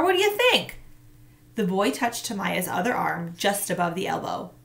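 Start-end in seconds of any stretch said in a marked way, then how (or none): 0.0-0.8 scoffing. A narrator's reading. Summer snaps at boy.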